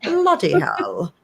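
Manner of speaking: lightly hammed-up English accent. Host jokingly claims to be from England, mock English accent. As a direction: play at being English, slowing on the last words. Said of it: "talking like I'm from England".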